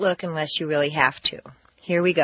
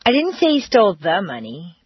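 "the" punched as "thee"; single out "the" to mean other money; stress on THE; 4 dB louder than usual. Shown as a demonstration. Teacher demo about a different sum, stress on "the". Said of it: "indicate that he may have stolen a different amount".

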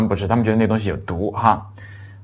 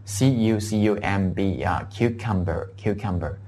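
slow model word; slower than usual. Shown as a demonstration. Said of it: "注意一下".

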